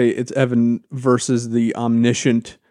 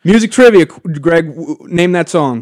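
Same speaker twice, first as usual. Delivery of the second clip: unhinged villain; 4 semitones higher, 8 dB louder than usual. Acted. Teasing quiz host, manic.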